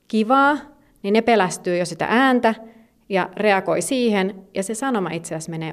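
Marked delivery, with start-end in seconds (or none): 0.1-0.6 mock shout. Shown as a demonstration. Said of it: "vaikka sä huutaisit jotain".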